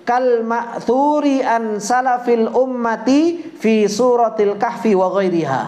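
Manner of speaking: slow, measured recitation of a classical text; slow formal recitation; reciting Arabic text. Acted. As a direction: read the Arabic line slowly and deliberately, like a kitab lesson. Reads Arabic text aloud.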